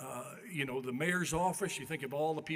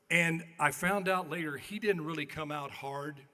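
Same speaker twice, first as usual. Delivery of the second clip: normal talking voice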